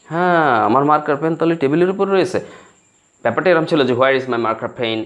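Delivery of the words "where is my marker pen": "Where is my marker pen?" said slowly and clearly; slow correct model. Shown as a demonstration. Teacher giving the correct sentence to learners, slow and clear. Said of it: "এভাবে হয়তো বলতে হতো".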